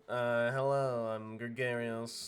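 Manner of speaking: nasally bureaucrat voice. Acted. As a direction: pinch it through the nose. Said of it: "he's got a, a nasally voice".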